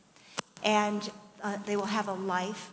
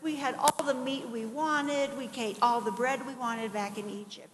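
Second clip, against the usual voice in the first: lightly acted whine, pitched up; mock whining; 3 semitones higher than usual. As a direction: imitate people whining about unfairness. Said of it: "They are whining, and they're saying".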